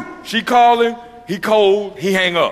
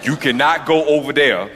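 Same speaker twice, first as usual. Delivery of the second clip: put-on lower, serious girlfriends lecturing; a hint of stern friends; stern friend warning; 5 semitones lower than usual. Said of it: "they say".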